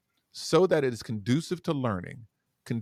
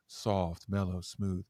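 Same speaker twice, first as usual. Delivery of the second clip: softer, lower, gentle; soft and mellow; 6 semitones lower, 6 dB quieter, much slower than usual. Shown as a demonstration. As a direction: breathe the words out.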